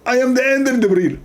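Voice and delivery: pompous repeat with "end" pressed hard; squeezed Zakir Naik voice. Pretend. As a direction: squeeze the voice, stress "end" harder. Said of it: "Why you are squeezing yourself?".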